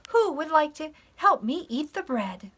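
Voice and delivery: high, loud storybook call; yelling hen. A narrator's reading. Little Red Hen inviting friends to eat, yelling. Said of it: "yelled to her friends".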